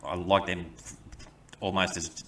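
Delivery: halting, stumbling over the start; stuttering. Real, not acted. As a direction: trip on the first word, then stall mid-thought. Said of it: "You're stuttering?".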